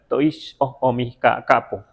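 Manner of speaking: teacher models the greeting phrase for students to copy; greeting phrase demo. Shown as a demonstration. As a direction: say "Toish o, o mi ca-, capo" slowly and clearly, with a rise on "capo". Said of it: "Fíjense cómo suena".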